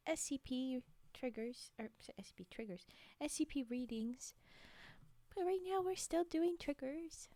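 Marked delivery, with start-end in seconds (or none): 0.1-4.3 soft whisper. Real, not acted. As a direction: whisper the words. ASMR whispering.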